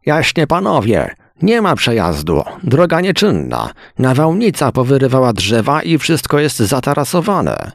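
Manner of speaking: wysoki, prostacki głos robotnika. A narrator's reading. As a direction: zagraj prostego chłopa z łopatą. Worker speaks to travellers. (wysoki głos robotnika)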